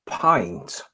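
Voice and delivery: "pint" with a lightly imitated American vowel; a hint of a New England "pint". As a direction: mimic how a Massachusetts friend says "pint". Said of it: "the word pint was said in a uniquely American".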